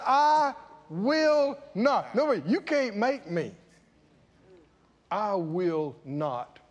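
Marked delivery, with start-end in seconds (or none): 0.1-2.1 slow, drawn-out defiant I will not; defiant refusal. Shown as a demonstration. Preacher showing the son's defiance, slow. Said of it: "That's defiant". 5.1-6.6 quiet refusal. Shown as a demonstration. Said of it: "I can say it like this".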